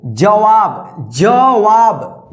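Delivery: "जवाब" drawn out very slowly, syllable by syllable; slow demo. Shown as a demonstration. Teacher models the word for students, very slow and clear. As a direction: spell "जवाब" out slowly for beginners. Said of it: "देखिए यहाँ पे जवाब".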